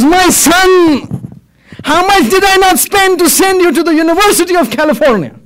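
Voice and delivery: high, indignant cry of a let-down father; reproachful appeal. Acted. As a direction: call your son to account. Dying man reproaches his son.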